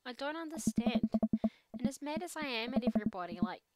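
a lightly voiced teenage girl venting; teen daughter voice. Teen daughter venting to her dad, lightly voiced. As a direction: play it as an upset teen unloading. Amanda confiding sadness.

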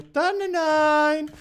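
high, slow, stretched-out beckoning; teasing call. Pretend. Player coaxing the target to come here, teasing call. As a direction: lure them over in a drawn-out high call. Coaxes enemy to come over.

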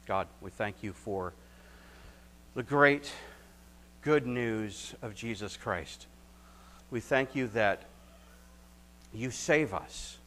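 earnest, measured prayer voice; closing prayer. Acted. Pastor closing the sermon, leading earnest prayer. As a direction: pray it sincerely for the congregation.

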